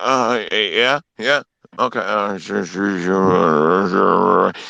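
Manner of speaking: mock sleepy, low, slow, bored, half-listening tone. Retelling listening to a dull talker: imitating a bored, sleepy listener. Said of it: "you're falling asleep in your hand".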